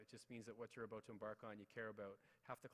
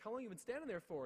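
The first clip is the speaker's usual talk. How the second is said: high, loud flustered voice; embarrassed question; 10 semitones higher, 6 dB louder than usual. Retold or imitated. Caught rookie teacher questions the custodian, high embarrassed voice.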